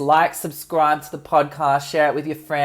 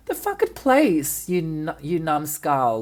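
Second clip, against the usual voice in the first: exasperated retort; 3 semitones higher than usual. Retold or imitated. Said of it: "I'm like".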